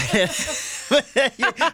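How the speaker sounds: giggling high and bright; embarrassed high laugh; high burst of laughter. Real, not acted. Laughing at being caught out.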